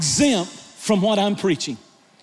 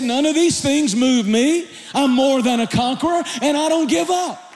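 fiery preaching. Real, not acted. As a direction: preach it at full force to the church. Preaching at full force, shouting.

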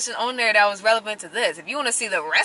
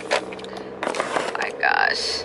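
nervous groan; 4 dB quieter, much slower than usual. Real, not acted. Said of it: "like, nervous".

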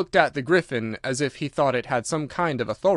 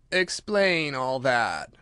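Mock Turtle voice; much slower than usual.

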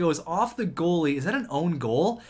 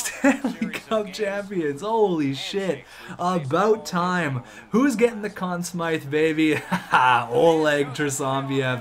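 slow laughing delight; laughing through words. Real, not acted. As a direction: still giggling after the win. After win, laughing.

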